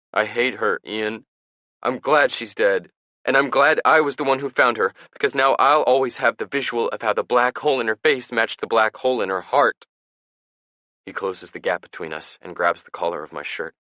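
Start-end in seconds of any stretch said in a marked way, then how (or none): 0.1-9.9 high, loud hateful shouting; furious outburst. A narrator's reading. Ben raging at Ian about their mother, furious shout. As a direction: spit the hatred out loud.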